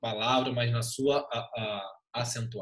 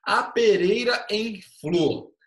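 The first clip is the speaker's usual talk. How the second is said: slow, louder, higher declaimed line; verse recitation; 6 semitones higher, 5 dB louder, slower than usual. Shown as a demonstration. (verso declamado devagar, em voz alta)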